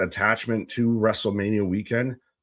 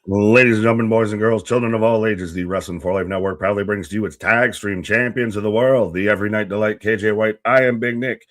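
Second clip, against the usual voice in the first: loud circus ringmaster call; 5 dB louder than usual. Acted. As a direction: announce it like a ringmaster. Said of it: "ringmaster-style introduction of co-host".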